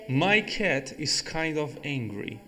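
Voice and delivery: slow, careful example sentence; slow teacher demo. Shown as a demonstration. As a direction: read the example slowly. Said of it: "eu poderia falar também".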